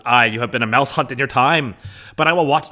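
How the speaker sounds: put-on loud, high Irish-accented stage line. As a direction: slip into an Irish accent as Lady Capulet. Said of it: "like, an Irish accent".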